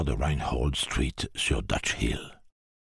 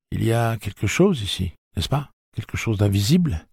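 raised anxious voice; uneasy questions; 7 semitones higher, 4 dB louder than usual. Acted. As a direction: ask it nervously, pitched up. Eddie asks uneasily.

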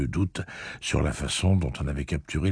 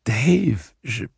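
distressed call; 8 semitones higher, 5 dB louder than usual. A narrator's reading. Stunned shooter calls the man, cut off.

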